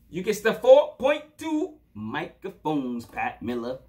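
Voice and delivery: slow, drawn-out announcer read; rating announcement. Acted. Reviewer announcing the score to the rapper, slow announcer style.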